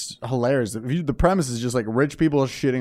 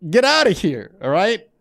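loud, high shocked yell at the cat; high startled shout; 12 semitones higher, 6 dB louder, much slower than usual. Retold or imitated. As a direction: yell it like you just walked in on something. Shouting at cat cleaning himself.

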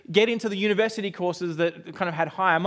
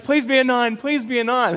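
higher, louder pleading chant; eager pleading; 4 semitones higher, 5 dB louder than usual. Retold or imitated. Student on the results line, eagerly pleading. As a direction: beg the number to be a nine, eagerly. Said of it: "And I'm like".

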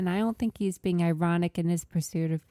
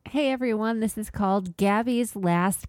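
radio voice. Acted. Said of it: "go all radio voice".

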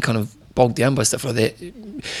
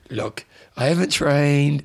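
pleading excuse; slower than usual. Retold or imitated. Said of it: "the whole time I'm saying".

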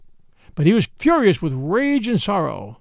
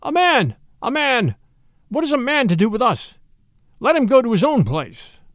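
pack yelling; 6 semitones higher than usual. A narrator's reading. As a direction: yell it as a jeering pack. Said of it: "half the pack yelled".

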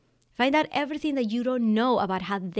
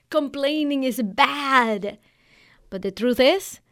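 slow, preachy mock guru line; a hint of a smug guru, dragged out; 3 semitones higher, 4 dB louder, slower than usual. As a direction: parody the gurus, drawn out and slow. Mocking the online coaching gurus.

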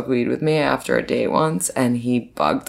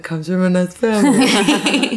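higher, laughing Persian mom voice; Persian mom impression; 6 semitones higher than usual. Woman telling friends about her date, laughing, as a Persian mom. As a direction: mimic a proud Persian mother, laughing through it. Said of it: "I, like, sound like a Persian mom".

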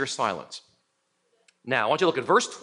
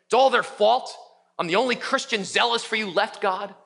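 blaming Elijah; 5 semitones higher than usual. Acted.

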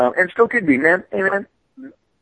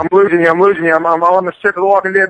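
low-key Kirkman; 2 semitones lower, faster than usual. Retold or imitated. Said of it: "if I was doing Kirkman".

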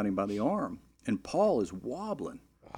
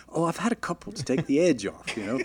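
higher, chuckling through it; laughing drunk excuse; 6 semitones higher than usual. Retold or imitated. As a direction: play it off with a laugh. Drunk groom answers priest.

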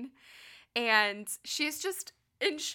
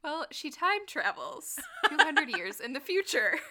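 laughing; 5 semitones higher than usual. Real, not acted. Explaining absurd premise while giggling.

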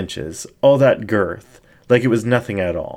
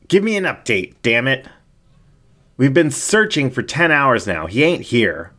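gruff sheriff; 5 semitones higher than usual. Acted. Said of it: "the sheriff grunted".

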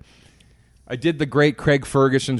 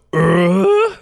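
Tim Allen grunt; 6 semitones higher, 5 dB louder than usual. Retold or imitated. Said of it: "Just go".

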